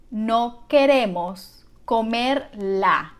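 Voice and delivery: slow, word by word; slow teaching model. Shown as a demonstration. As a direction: draw it out slowly for learners. Teacher models the sentence slowly first.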